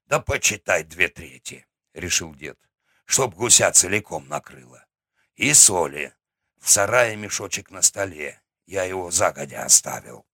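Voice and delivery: a hint of a gruff old grandfather; голос старика. Grandfather gives orders. (низкий голос старого деда)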